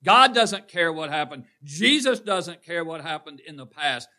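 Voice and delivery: loud, ringing preacher's cry; preaching shout. Real, not acted. Preacher rousing the congregation, loud. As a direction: drive it home to the pews.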